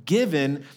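"given" held out on its own; single out "given" with a short pause before it; stress on given. Real, not acted. Preacher repeating the key word, emphatic "given". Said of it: "that emphasis on the word".

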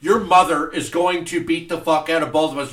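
stern scolding, rising to a shout; angry parent. Retold or imitated. Scolding kid, building.

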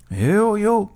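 high, put-upon "all right"; grumbled assent. A narrator's reading. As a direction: grumble back at whoever woke you.

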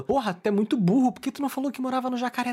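imitating an exasperated friend; exasperated scolding. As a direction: scold a friend for being dim.

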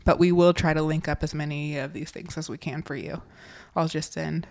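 sharp whistling s sounds; hissing, whistling sibilants. Real, not acted. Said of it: "We need to get rid of our whistling S's".

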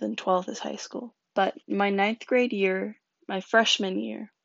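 gulping between words; swallowing hard while talking. Real, not acted. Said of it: "sorry if I'm gulping a lot".

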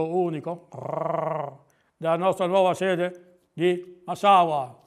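fussy owl with weakened r's; pompous owl. Acted. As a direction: owl musing in a put-on speech defect. Voices Gufo promoting Formica.

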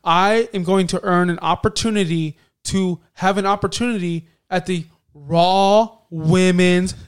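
slow, loud scripted wrestler read; robotic promo voice. Retold or imitated. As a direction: drag it out like a stiff script. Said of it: "not like robots".

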